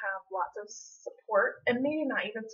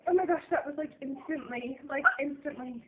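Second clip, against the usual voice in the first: excited; 5 semitones higher than usual. Real, not acted. Reacting to positive test live.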